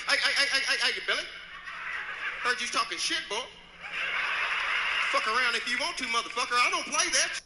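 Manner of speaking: loud, hammed-up confrontation; mock challenge. Country star squaring up to Billy, mock-tough challenge. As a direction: call out a rival, lightly playing the tough. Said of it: "Clint like".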